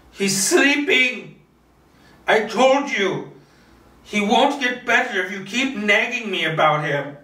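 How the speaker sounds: put-on panicked old woman insisting; tense insistence. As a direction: hold the lie together, voice going tight. Martha's breathing becomes rapid.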